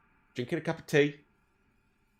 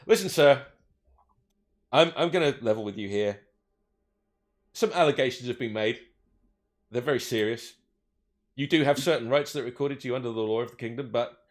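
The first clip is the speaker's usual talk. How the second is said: lower, confiding officer voice; officer drops his voice to strike a deal; elf officer leveling; 3 semitones lower than usual. Acted. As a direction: lean in and level with him.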